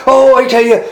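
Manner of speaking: high, loud, wide-eyed telling; excited storyteller. Acted. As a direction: marvel at it out loud.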